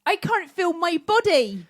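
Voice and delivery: deliberately bad dying heroine, drawn out; hammed-up Rose. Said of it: "I'll be Rose".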